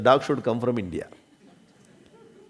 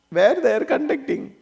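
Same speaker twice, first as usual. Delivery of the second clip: curious student; 11 semitones higher than usual. Retold or imitated. Student asks about course.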